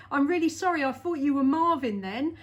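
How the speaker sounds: ordinary talk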